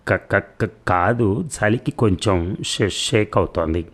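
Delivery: stuttering out of nerves, a little slow; nervous stammer. Acted. Shaky doctor stammering to his patient, nervous. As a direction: trip over the first sounds, scared.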